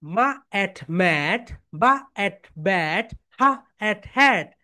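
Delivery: very slow, sound by sound: মা at mat; slow sound-by-sound phonics demo; slow segmented reading. Shown as a demonstration. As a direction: stretch each sound out slowly for pupils. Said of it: "এইভাবে পড়বে".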